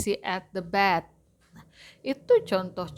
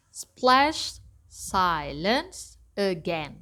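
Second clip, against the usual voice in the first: counting syllables; much slower than usual. Shown as a demonstration. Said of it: "how to count the syllables".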